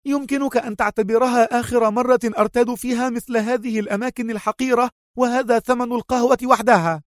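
high, contemptuous farewell; parting feigned anger. A narrator's reading. Mona walking out on the restaurant, high and contemptuous. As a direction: fling the words back as she storms out.

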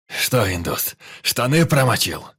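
loud, jeering shout; mocking yell. A narrator's reading. Пётр орёт, насмехаясь над испуганным индусом. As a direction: taunt him at full voice. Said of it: "Продолжал орать Пётр".

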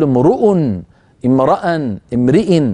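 امرؤ imruu, امرأ imraa, امرئ imri with r following the vowel; case endings shown. Shown as a demonstration. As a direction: set the r vowel to each ending. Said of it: "فنقول".

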